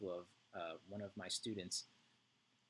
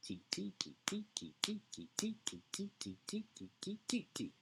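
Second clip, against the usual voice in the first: high, fast light ti-ti syllables; quick elf titis; 11 semitones higher than usual. Shown as a demonstration. Music teacher voicing the quick elves, high light ti ti. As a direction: chirp the titis like tiny busy elves. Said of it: "the elves work like this".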